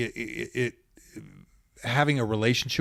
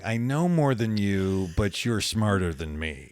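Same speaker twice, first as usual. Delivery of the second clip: smug student; 3 semitones lower, slower than usual. Retold or imitated. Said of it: "sitting there going".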